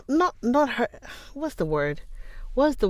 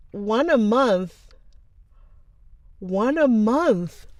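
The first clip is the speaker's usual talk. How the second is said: "a" drawn out slowly; slow deliberate one a month; stress on a; 3 semitones higher, much slower than usual. Shown as a demonstration. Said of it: "One a month from now".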